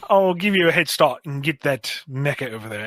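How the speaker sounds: slightly Australian, drifting toward Cockney; shaky Australian accent. Acted. Revived Flatline to the doctor, amateur Australian accent. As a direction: attempt a light Australian accent. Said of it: "I can't do a good Australian accent".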